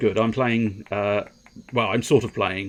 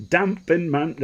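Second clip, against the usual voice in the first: higher-pitched attempt at Mancunian; amateur Manchester accent, broken off; 7 semitones higher, slower than usual. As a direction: have a go at Manchester. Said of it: "I can't do a Manchester accent".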